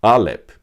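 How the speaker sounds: Alep said alone, ah-LEP, falling; saying Alep. Shown as a demonstration. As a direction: repeat the word Alep clearly, stress on LEP. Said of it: "uma das formas de falar boi".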